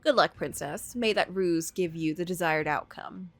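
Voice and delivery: a hint of a cold, dark sorceress. Medea's voice in the story.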